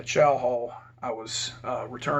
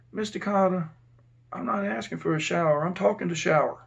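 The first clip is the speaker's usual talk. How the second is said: a slightly raised, lightly imitated female voice; lightly voiced inmate; 4 semitones higher than usual. Inmate explaining himself to the officer, lightly put-on voice. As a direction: correct the officer with a hint of feminine inmate.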